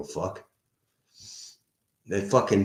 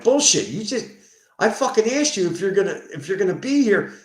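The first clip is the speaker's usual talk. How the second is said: high, louder retold challenge; indignant retort; 10 semitones higher, 5 dB louder than usual. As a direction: re-enact an indignant argument. Acted argument with the tenant.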